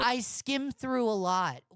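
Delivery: a light sneering echo of the quote; mocking repeat. Mocking a YouTuber's own admission, light sneer. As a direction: throw his words back at him, lightly mocking. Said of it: "mocking repeat of opponent".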